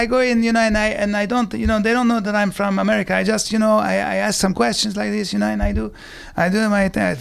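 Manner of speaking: lightly put-on bad Italian accent; terrible Italian accent. Actor bluffing Larry David at audition, bad Italian accent. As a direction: fake being an Italian, badly. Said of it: "I'm doing a terrible accent".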